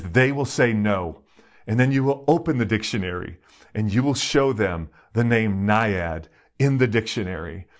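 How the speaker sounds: imitated Greek father giving instructions; deliberate, lightly put-on Greek accent; thick Greek accent. Father tells daughter what the dictionary will show, Greek accent. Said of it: "in his thick Greek accent".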